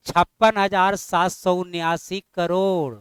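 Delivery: slow, laboured reading of "छप्पन हजार सात सौ उन्यासी करोड़"; wrong way to read. Shown as a demonstration. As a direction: spell the number out clumsily to show the mistake. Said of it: "ऐसे ना पढ़ना है".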